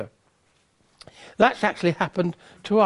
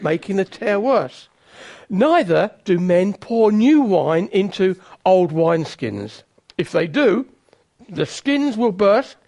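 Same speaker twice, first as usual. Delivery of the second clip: scripture reading. Acted. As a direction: read the words of Jesus with weight and care. Reads Jesus' words from Scripture.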